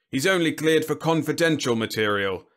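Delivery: high, loud, scornful General; disparaging. A narrator's reading. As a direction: cast aspersions with every word. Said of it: "his tone casting aspersions".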